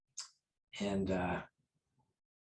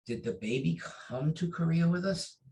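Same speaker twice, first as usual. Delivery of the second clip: imitating grandmaster; 8 semitones higher than usual. Grandmaster asks odd question.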